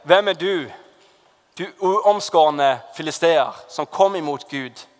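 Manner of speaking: slow, emphatic challenge to an enemy, lightly acted; David. Preacher acting David facing the giant, mildly defiant challenge. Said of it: "være som David, som sier".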